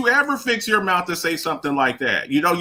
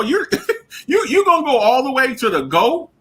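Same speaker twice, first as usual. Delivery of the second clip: laughing disbelief; 5 semitones higher than usual. Real, not acted.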